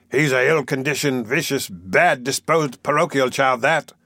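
contained, indignant denunciation; mildly angry, weighting each insult. Acted. Mister Bumble denounces the parish boy, mildly angry. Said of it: "said Mister Bumble angrily".

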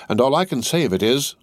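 a touch of exasperated amusement; vexed. A narrator's reading. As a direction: say it through mild vexation. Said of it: "laughed Stryver with a vexed laugh".

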